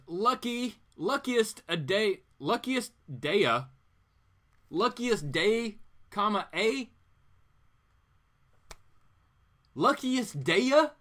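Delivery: stumbling reading. Acted. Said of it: "And the guy says".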